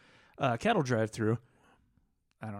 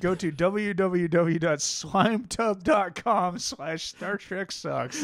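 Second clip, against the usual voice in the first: mock ad read; 4 semitones higher, slower than usual. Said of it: "I hate doing these ad reads".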